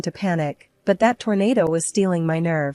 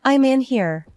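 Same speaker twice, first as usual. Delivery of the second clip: screaming; 5 semitones higher than usual. A narrator's reading. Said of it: "I just kept on screaming".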